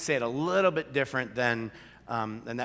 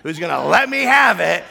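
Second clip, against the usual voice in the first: louder, higher mock dread; dreading inner voice; 5 semitones higher, 12 dB louder than usual. Pastor voicing his panic as Sandy approaches, sarcastic dread. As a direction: brace for the telling-off. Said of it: "and I'm like".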